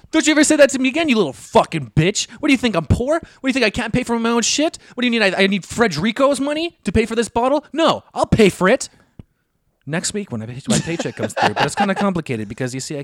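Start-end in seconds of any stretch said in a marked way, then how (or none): 0.1-11.5 higher, faster, laughing through a mock tirade; hammed-up outrage at being offered help; laughing mock fury, quick and high; mock indignant rant. Reenacting the guy's rant, laughing.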